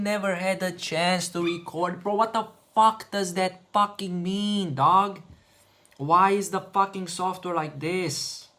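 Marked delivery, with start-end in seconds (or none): 2.0-8.5 frustrated outburst. Real, not acted. Frustrated rant at software.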